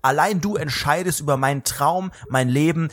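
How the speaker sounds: slow, grandiose mock tribute; mock solemn. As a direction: draw it out like a pompous declaration.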